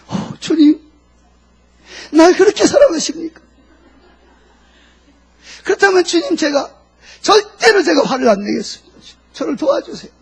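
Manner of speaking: high, overcome cry to the Lord; acted tearful plea. Acts a moved believer pleading to God. (울먹이며 주님께 호소하는 연기)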